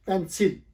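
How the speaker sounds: "पेंसिल" firmly as PEN-sil; correct pronunciation. Shown as a demonstration. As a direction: clear open e starting पेंसिल. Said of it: "ये actual word है".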